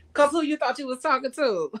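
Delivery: laughing sassy question. Real, not acted. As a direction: laugh through the line. Laughing sass.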